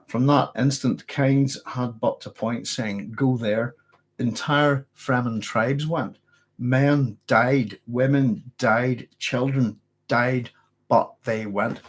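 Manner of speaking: slow, grave reading of a passage; dramatic book reading. Acted. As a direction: read it like a solemn scripture. Reads a Dune passage aloud.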